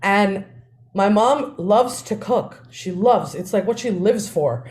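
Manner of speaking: usual speaking voice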